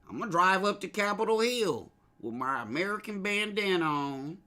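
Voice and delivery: mock rioter. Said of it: "You get in your old Ford".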